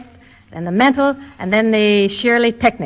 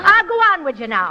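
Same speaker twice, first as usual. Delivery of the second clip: stage Irish brogue; Irish brogue for a student to copy; Irish washwoman; 3 semitones higher than usual. Shown as a demonstration. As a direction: demonstrate a typical Irish washwoman's accent. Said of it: "imitate me as I say a few phrases".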